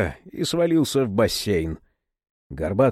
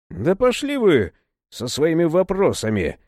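fierce, higher retort; enraged; 5 semitones higher than usual. Acted. Serafim telling the monks off in rage. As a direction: throw the words back in fury. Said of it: "рассвирепел Серафим".

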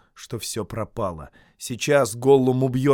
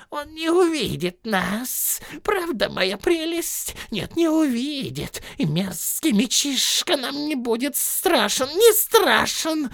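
much higher, slow gloating creature voice; Gollum voice; 3 dB louder, slower than usual. Acted. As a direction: coo to your precious, sly and smug. Gollum talks to his precious.

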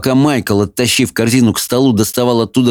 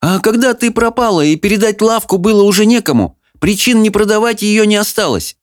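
put-on lightly raised, fond older woman; gentle aunt voice; 10 semitones higher than usual. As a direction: speak as a kindly stepmother. Fanny voiced again.

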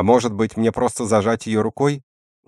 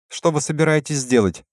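high, scared squeaky voice; frightened squeak; 7 semitones higher than usual. A narrator's reading. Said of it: "испуганно пропищал Деметриус". (испуганный писк)

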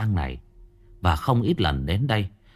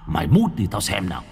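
hissing taunt. A narrator's reading. Ghost taunting the scrawny rookie, hissing. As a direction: spit the dare out mockingly. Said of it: "nó rít lên".

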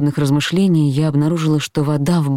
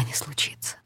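whisper; 3 semitones lower, 15 dB quieter than usual. A narrator's reading. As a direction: fade to a bare whisper. Sentence fades to nothing. (едва слышный шёпот)

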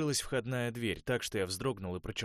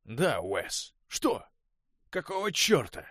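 rising, much higher and louder angry demand; 7 semitones higher, 8 dB louder, slower than usual. A narrator's reading. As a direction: confront him, voice climbing. Конор в ярости на Уэса. (Конор в ярости требует ответа у Уэса, злой и громкий)

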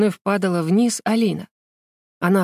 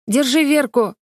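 high, louder call to grab her; shouting; 6 semitones higher, 3 dB louder than usual. A narrator's reading. Alina shouting to Alik to catch Vera. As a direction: yell to her partner. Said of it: "крикнула Алина Алику".

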